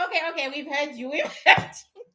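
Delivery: rapid placating words breaking into laughter; hurried, chuckling retold concession; imitated laughing reply. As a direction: imitate amused elders giving in. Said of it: "They are laughing at me right now".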